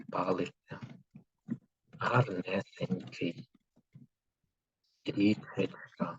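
slow and soft, word by word for writing; slow dictation. Shown as a demonstration. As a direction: dictate slowly and quietly so they can write. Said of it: "І записуємо слова". (повільний тихий диктант)

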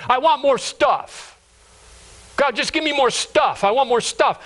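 high, insistent wanting; hammed-up greedy prayer; greedy demand. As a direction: demand it with heavy stress on the nouns. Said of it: "that's a greedy heart".

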